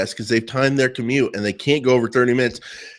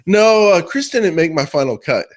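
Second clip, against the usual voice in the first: imitated blunt no; 5 semitones higher, 4 dB louder than usual. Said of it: "And she goes".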